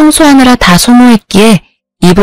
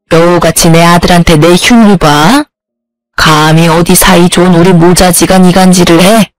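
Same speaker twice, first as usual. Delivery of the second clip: put-on a sneering older woman scolding; scolding mother-in-law; 3 semitones lower than usual. Mother-in-law scolding her son's wife on the phone, cold and lower.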